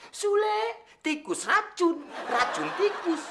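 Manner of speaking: high, slow, whiny mimic of Pakde calling; mimicking the boss. Servant mocking boss's whiny summons for coffee. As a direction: drag out the drink names like a demanding old master. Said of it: "manggil lagi".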